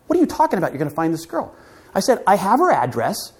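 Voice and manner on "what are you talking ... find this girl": incredulous friends. Retold or imitated. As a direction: scoff at him in disbelief.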